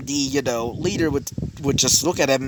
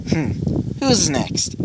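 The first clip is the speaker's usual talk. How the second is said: lightly cocky challenge, pitched up; 3 semitones higher, slower than usual. Acted. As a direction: toss it out with a touch of swagger. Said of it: "say with a cocky tone".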